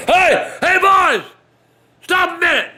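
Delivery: put-on high calling voice of an old man. Old man stopping the boys, calling out high. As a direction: holler at the boys to stop.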